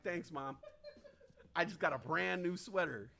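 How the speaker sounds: laughing thanks. Retold or imitated. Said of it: "I was like".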